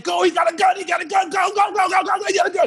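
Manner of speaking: very high, repeated panicky yell; mock-frantic squeal, urging them to drive off; panicked warning. Man diving through a car window urges driver, high panicked yelling.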